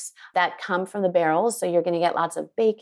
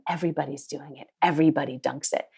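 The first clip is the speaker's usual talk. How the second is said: lower, quick, coaxing peer pressure; mock peer pressure; 4 semitones lower, faster than usual. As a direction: lean in and goad them playfully. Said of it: "peer pressure them".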